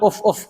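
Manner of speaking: two quick light puffs, "uf, uf"; short blowing puffs. Shown as a demonstration. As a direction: puff out the breath twice, "uf, uf", to show the sound. (tiupan ringan dua kali "uf, uf")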